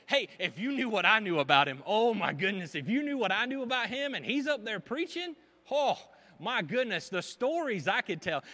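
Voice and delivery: loud, incredulous mock gossip; scandalized gossip. Old friend gossips about someone now preaching, loud and scandalized.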